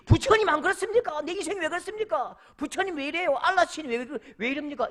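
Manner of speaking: high, whining protest in play; hammed-up griping at the wrong god; mock grumbling complaint. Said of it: "하나님께 투정 부려". (투정 부리듯 높은 목소리로 따지는 흉내)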